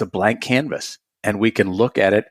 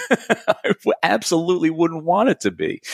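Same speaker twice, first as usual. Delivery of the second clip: laughing; 8 semitones higher than usual. Real, not acted. Laughing mid-sentence.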